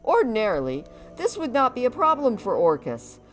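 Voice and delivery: hammy orc warrior voice. Acted. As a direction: boast like a proud orc. Voices Orcus telling his story.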